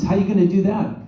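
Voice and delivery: high, loud British disbelief; hammed-up British accent. Director doubting the actor's idea, loud mock British accent. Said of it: "I'm gonna do a Dick Van Dyke accent now".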